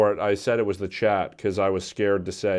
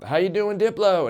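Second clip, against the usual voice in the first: forced cheery greeting; 8 semitones higher than usual. Retold or imitated. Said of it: "I'm like".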